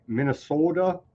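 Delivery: Minnesota said in a mild Minnesota accent, long open o. Shown as a demonstration. Host tries the Minnesota accent on the state name. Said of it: "Did I do the accent right?".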